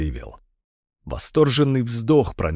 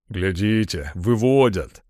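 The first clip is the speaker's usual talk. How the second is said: excited; 2 semitones lower, slower than usual. A narrator's reading. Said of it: "восхищённо проговорил Миша".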